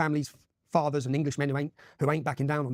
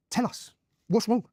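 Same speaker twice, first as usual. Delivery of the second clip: slow, higher, put-on prim official voice; mock official; 6 semitones higher, slower than usual. Council asking the protest leader, mock prim and slow. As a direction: lightly imitate a condescending council official.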